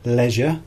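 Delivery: "leisure" said carefully as a model word; correct pronunciation. Shown as a demonstration. Teacher corrects the pronunciation of this word, modelling "leisure" carefully. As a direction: model "leisure" clearly, set apart by pauses. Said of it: "The pronunciation of this word".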